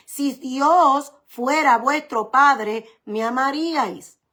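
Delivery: very slow, each word weighed; slow emphatic quote. Shown as a demonstration. Preacher to congregation quoting Jesus, very slow. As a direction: lay Jesus' words out slowly.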